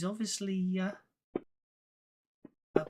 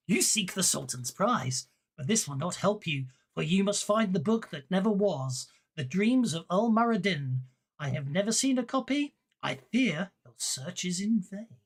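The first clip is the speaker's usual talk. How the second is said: solemn bookseller reading. Acted. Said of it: "I'm just gonna read it".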